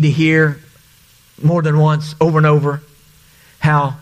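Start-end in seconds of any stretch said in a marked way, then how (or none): none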